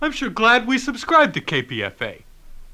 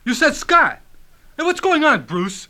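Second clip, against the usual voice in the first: angry; 5 semitones higher, 3 dB louder than usual. Acted. Husband confronts wife about Scott.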